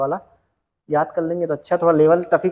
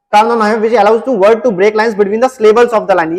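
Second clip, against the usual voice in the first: reading the question out slowly, word by word; slow, deliberate quiz read-out; 3 semitones higher, 3 dB louder, much slower than usual. Acted. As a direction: dictate the question slowly to the class. Reads the quiz question aloud.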